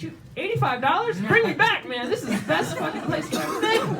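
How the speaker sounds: high-pitched, excited exclamation; excited outburst. Retold or imitated. Customer raving about a place he was just at, excited. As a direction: exclaim it high, all worked up.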